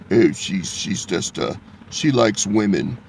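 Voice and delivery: low, soft and hushed, tiptoeing around it; mock-polite church talk. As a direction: mimic a timid churchgoer afraid to say it straight. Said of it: "See, that's what they do in church".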